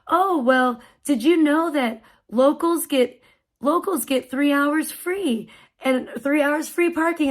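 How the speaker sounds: slow, lilting helpful explanation; calm, nice voice. Retold or imitated. Attendant telling mom about free parking, slow and kindly. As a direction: imitate a kindly attendant sharing good news. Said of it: "the calmest, nicest voice".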